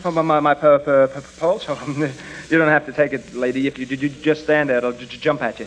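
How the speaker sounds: stuttering, tongue-tied nerves in front of a woman; nervous stammer. Acted. Flustered man stammering to the flirting drug clerk. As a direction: trip over every word like a flustered shy man. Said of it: "Don't be so nervous".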